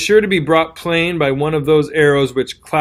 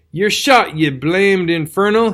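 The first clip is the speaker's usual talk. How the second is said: retold swearing; 5 semitones higher, slower than usual. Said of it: "he swore horrible".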